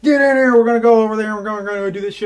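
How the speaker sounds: high, hurried imitation of a neighbor; mock excited summons.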